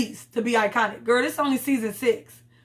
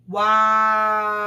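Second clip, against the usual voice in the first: loud disgusted wow; 4 dB louder than usual. Real, not acted. Reacting to castmates' behavior.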